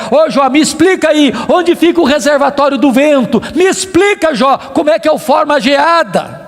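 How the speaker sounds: insistent retold interrogation; God challenging Job. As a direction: press Job for an answer.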